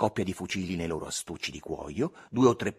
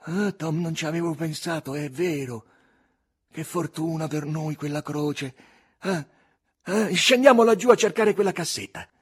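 put-on Huck, boyish and eager, rising to a loud high burst; a boy thrilled by a clue, pushing to go dig; excited Huck; 7 semitones higher, 6 dB louder than usual. A narrator's reading. Huck urging Tom to dig: excited boy.

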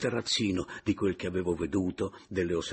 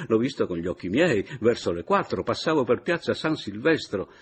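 teasing accuser; 4 semitones higher, 6 dB louder than usual. A narrator's reading.

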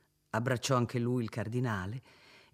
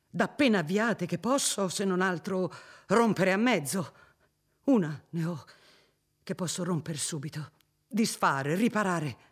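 a hint of a sinner turning eager to undo; lamenting lord; 4 semitones higher than usual. Lord laments then resolves.

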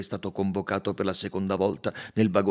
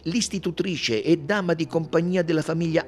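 loud, high detective building his revelation; Poirot accusatore; 9 semitones higher, 7 dB louder than usual. Acted. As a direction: drive the revelation home, voice raised throughout. (Poirot incalzante, voce forte e acuta)

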